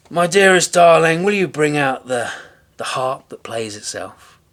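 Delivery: loud, high sing-song call to his wife; giant calling out. A narrator's reading. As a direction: boom it across the castle.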